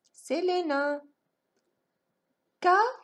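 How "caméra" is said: "Caméra" with a long pause after a high, loud "Ca"; syllable by syllable. Shown as a demonstration. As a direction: sound out "Ca", wait, "mé", "ra". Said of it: "On va frapper les syllabes".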